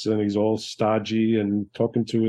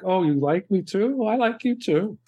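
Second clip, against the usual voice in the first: high, sweet mock lovers' talk; 8 semitones higher than usual. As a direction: squeak it out like shy young lovers. Acting out the royal couple.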